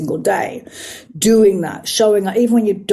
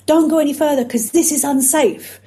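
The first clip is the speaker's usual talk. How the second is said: scared protector part; 5 semitones higher than usual. Retold or imitated. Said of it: "It's like".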